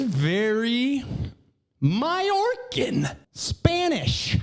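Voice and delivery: high, drawn-out mock Spanish flourish; mock Spanish accent. Comedian mocking her claimed origin, mock Spanish accent. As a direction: stretch it out in a put-on Spanish accent.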